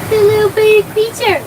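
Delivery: very high pet-talk squeal. Real, not acted. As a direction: gush over the little dog. Cooing over the dog.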